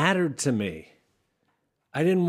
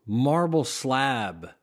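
usual speaking voice

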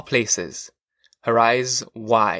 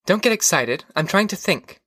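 higher-pitched wife's voice; wife fending off questions, pitched up; wife protesting; 7 semitones higher than usual. A narrator's reading. Wife tells husband she is trying to remember, high voice.

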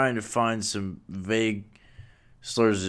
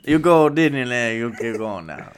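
Cajun guy voice; 4 dB louder than usual. Pretend. Co-host extending the Disneyland bit, mock Cajun guy voice. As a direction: open big as a mock Cajun, then ease down. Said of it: "like, Cajun guy voice".

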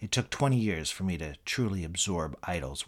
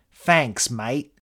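put-on Eric Idle's British accent; 3 semitones higher, 6 dB louder than usual. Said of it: "your British accent".

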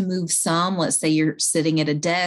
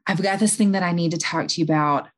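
quiet and calm. Shown as a demonstration. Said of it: "go to them quiet and calm and say".

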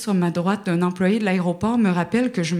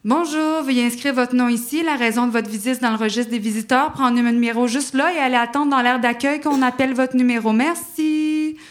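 higher, rote clerk recitation; bored receptionist; 4 semitones higher than usual. Retold or imitated. Embassy clerk reciting procedure to visitor, mock rote. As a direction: rattle off the routine like a desk clerk. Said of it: "ça ressemble plus à".

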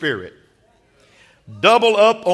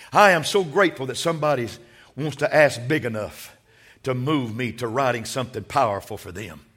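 lower, softer storyteller's voice; hushed sermon storytelling; 5 semitones lower, 5 dB quieter than usual. Acted. Preacher telling the congregation about Napoleon, hushed storytelling. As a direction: draw them in with a low, quiet tale. Quiet sermon illustration told.

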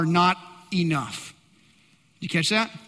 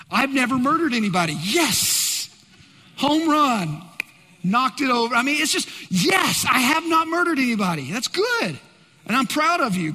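hammed-up shouted triumph; mock celebration; 3 semitones higher than usual. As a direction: cheer like you just scored. Mock celebrating own righteousness.

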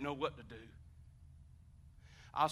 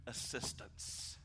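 whispered; 3 semitones lower, 8 dB quieter, much slower than usual. Acted. Sermon point, whispered word.

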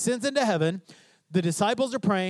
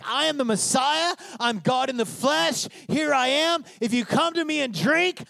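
bold declaration; 5 semitones higher than usual. Acted. Acting Jesus declaring himself to crowd.

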